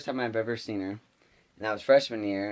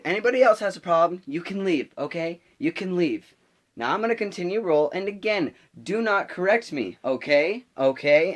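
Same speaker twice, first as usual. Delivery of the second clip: high, loud, challenging lecture; mock teacher daring anyone to object; imitated angry warning; 8 semitones higher, 5 dB louder than usual. Substitute to whole class, irate.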